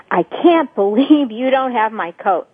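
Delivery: slow, judgmental, with a scornful half laugh. Shown as a demonstration. Scolding a mate over the forgotten coat, slow and judgmental. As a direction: let the disbelief drip with blame. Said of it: "because I'm judgmental and threatening strictly by virtue of my tone of voice".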